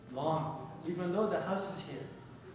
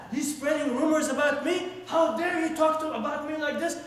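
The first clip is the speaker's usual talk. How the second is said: raised, indignant retold outburst; higher-pitched, offended retelling; so mad; 5 semitones higher, 3 dB louder than usual. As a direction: act out someone outraged at being gossiped about. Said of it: "He gets so mad".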